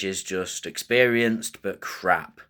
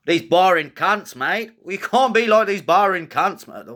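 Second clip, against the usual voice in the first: high, loud, hammed-up Aussie accent; mock Australian accent; 10 semitones higher, 5 dB louder than usual. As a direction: put on a big, swooping Australian accent. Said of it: "What is with that accent?".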